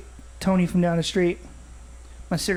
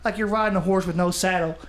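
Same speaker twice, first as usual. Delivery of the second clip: mock folksy sage. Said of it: "make up these quotes that my dad never said".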